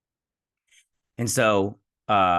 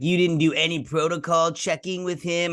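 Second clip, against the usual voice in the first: high-pitched incredulous question; mock indignation; 8 semitones higher than usual. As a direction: imitate someone fussing over protocol. Acted indignant objection in retold scene.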